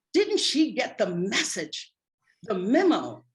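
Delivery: loud, slow, emphatic disbelief; affronted, weighty rebuke; indignant. Retold or imitated. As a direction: spell out the unbroken rule, word by word. Indignant inner rebuke after hair touched.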